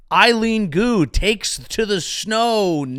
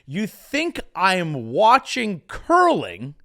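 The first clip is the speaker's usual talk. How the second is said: slow emphatic repeat; slower than usual. Shown as a demonstration. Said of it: "I'll say it again".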